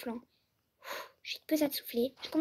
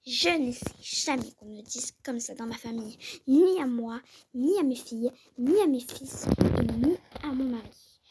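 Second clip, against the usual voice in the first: angry mother threat. Acted. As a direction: lay down the law to the coach. Mère menace l'entraîneuse. (mère en colère, menace lente et appuyée)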